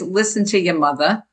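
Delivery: "mother" said as MUTH-a, r dropped; Jersey pronunciation. Shown as a demonstration. Author reading chapter three's title, "mother" as Jersey MUTH-a. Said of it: "M U T H A".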